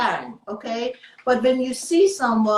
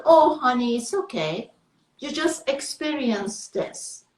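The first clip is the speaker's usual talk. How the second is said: soothing, loving comfort to yourself; tender self-talk. Shown as a demonstration. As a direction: console yourself like a child. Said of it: "Tap yourself on the shoulder".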